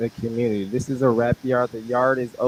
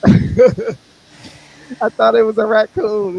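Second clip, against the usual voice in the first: high slow startled voice; 10 semitones higher, 8 dB louder, much slower than usual. Pretend. Playing bystander in skit.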